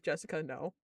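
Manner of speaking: soft, low warning; dreading murmur. Retold or imitated. Boss quietly dreading what her employee says next. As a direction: mutter her name in dread.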